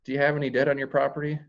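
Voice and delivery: upbeat, friendly take on the debt question. Shown as a demonstration. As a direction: toss it off cheerfully, no weight on it. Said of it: "It's, it's upbeat".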